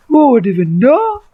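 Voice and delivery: high mocking repeat of the question; mock high echo.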